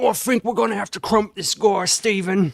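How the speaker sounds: very loud, high put-on orc brute voice. A streamer shows their channel their orc voice: orc voice. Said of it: "So here's my orc voice".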